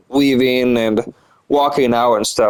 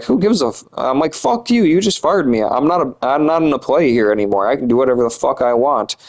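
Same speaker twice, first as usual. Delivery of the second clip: angry outburst; 4 semitones higher than usual. Retold or imitated. Fired worker tells off boss.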